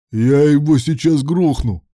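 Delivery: furious threat mid-fight. A narrator's reading. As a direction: spit out the threat in rage.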